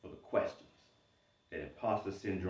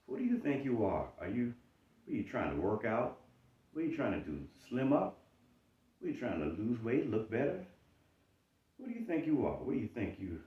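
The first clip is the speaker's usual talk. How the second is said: raised, sneering challenge; mocking inner critic; 3 semitones higher, faster than usual. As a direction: taunt like your own doubt. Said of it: "imposter syndrome says".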